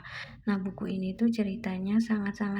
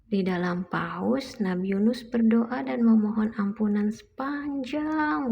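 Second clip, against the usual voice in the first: put-on reading to a toddler. Mother reads picture book aloud.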